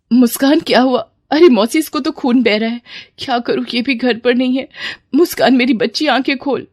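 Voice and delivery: mother crying out in distress; tearful panic. Acted. Mother over her injured daughter, tearful and panicked. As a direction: plead with a touch of sobbing fright. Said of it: "Sugandha के रोने की आवाज".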